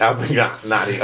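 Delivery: "Abagnale" drawn out as "Abag-natty"; unsure pronunciation. Real, not acted. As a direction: feel slowly through "Abagnale", ending "-natty". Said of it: "How do you pronounce his".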